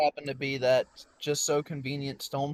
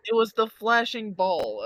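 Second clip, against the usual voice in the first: defensive; 8 semitones higher, 5 dB louder than usual. Real, not acted. Defensive excuse to accuser.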